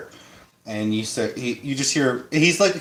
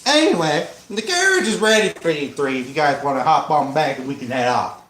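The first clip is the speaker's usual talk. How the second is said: light hillbilly twang; easygoing country driver voice. Acted. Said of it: "You like my hillbilly voice?".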